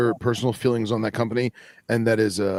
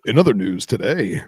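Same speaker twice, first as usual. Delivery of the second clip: formal broadcast opener; news anchor voice; 5 dB louder than usual. Shown as a demonstration. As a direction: open like an evening news anchor. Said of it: "news anchor voice".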